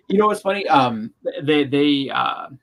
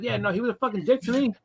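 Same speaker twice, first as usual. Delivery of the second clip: sarcastic retort; 9 semitones higher than usual. Retold or imitated.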